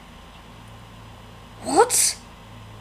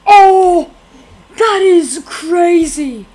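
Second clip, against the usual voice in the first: laughing; 9 dB louder, much slower than usual. Real, not acted. Reacting to game scare.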